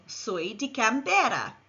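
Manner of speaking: "Soy de Canberra" said in Spanish; model Spanish phrase. Shown as a demonstration. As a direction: say "Soy de Canberra" clearly for learners. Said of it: "Repeat after me".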